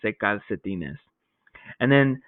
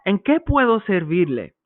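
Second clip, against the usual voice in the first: salesman greeting; 5 semitones higher than usual. Acted. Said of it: "the salesman says".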